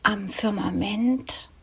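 measured poetry reading with pauses between phrases; poem recitation. Acted. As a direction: recite the evening poem line by line, letting each image settle.

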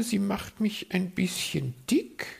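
high, preening bird voice; a vain magpie fishing for compliments. Acted.

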